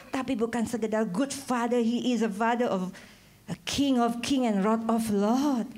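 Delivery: ordinary talk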